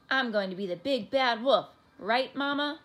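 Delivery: loud, bold announcement, lifting on the question; eager boasting. A narrator's reading. Child telling his mother his wished-for part, boasting loudly. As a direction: declare it proudly, then check with Mama.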